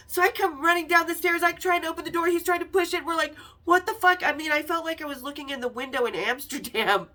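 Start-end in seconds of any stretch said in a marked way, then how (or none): 3.6-4.2 frustrated exclaim. Retold or imitated. Locked door between them.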